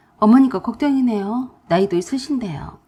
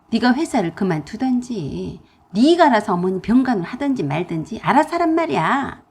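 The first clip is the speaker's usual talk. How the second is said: louder scolding tirade; pouring out anger; 4 dB louder than usual. Acted. Pregnant narrator angrily scolds sister-in-law. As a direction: let it all out at her. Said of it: "그냥 퍼부었어요".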